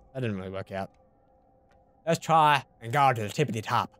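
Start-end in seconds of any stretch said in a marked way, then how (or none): 2.1-3.9 put-on Southern accent. Gamer heading for the tower top, accidental Southern accent. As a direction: slip into a playful Southern twang. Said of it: "Don't know why I went super old rig southern".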